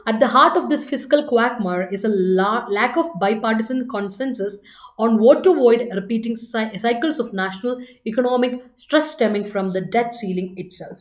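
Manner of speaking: slow, careful English read-aloud, word by word; slow dictation reading. Shown as a demonstration. Teacher reading the exam sentence to the class, slow and careful. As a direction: read it out slowly for the students.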